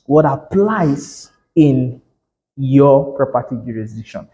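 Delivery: slow, weighty stress on "what applies"; emphatic. Real, not acted. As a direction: draw out "what applies in", spacing the words. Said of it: "emphasis on the word".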